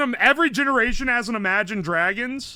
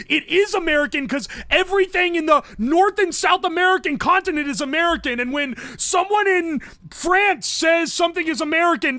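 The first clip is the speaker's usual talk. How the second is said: lightly put-on British pedant, pitched up; British accent; 5 semitones higher than usual. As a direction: correct them in a higher mock British voice. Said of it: "I'm doing a British accent for this".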